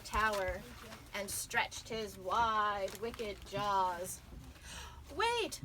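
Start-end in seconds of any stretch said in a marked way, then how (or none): 5.2-5.6 yelled wait. A narrator's reading. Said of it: "Xingling yelled".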